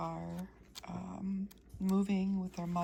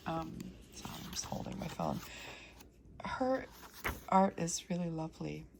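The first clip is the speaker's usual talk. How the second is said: hoarse voice from being sick; groggy voice. Real, not acted. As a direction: talk through a sick, groggy throat. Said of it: "Pardon my groggy voice".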